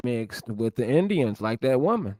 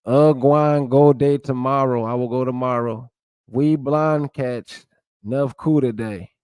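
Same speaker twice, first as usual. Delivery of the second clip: Gullah Geechee creole sentences, lightly voiced; reading Gullah examples; 4 dB louder than usual. Shown as a demonstration. Vlogger reads Gullah grammar examples to viewers, lightly accented. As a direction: sound out the Gullah verb forms, a hint of Gullah accent. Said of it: "Let's read some of these examples".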